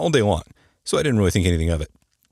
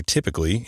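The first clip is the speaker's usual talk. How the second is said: typically leaned on a little; stress on typically. Real, not acted. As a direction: give typically a gentle extra weight. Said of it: "I emphasize the word typically".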